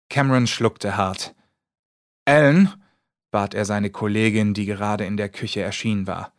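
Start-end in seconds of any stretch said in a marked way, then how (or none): 2.2-2.7 1 calling out. Acted. Cameron calls his colleague.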